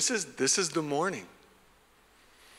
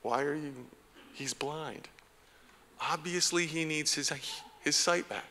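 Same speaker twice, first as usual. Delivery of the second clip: jerk move; 2 semitones higher, 6 dB quieter than usual. Retold or imitated. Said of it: "a little bit maybe of a jerk move".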